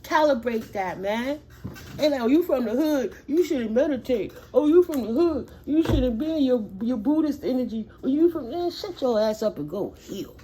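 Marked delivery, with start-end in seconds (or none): 2.0-9.6 mocking tone. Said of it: "mocking what others say".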